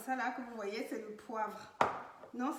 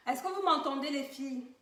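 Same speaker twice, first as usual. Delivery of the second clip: to someone hard of hearing; 3 dB louder than usual. Real, not acted. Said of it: "il faut que je parle plus fort".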